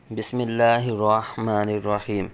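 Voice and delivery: measured opening invocation, evenly intoned; formal Arabic recitation. Acted. Teacher opening a Quran reading lesson, formal recitation.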